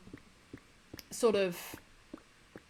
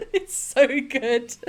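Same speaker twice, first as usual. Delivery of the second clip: laughing; 3 semitones higher, 5 dB louder, much slower than usual. Real, not acted. Still laughing at the sketch.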